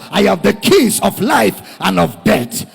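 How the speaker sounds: proclaiming. Acted. Preacher voicing risen Jesus.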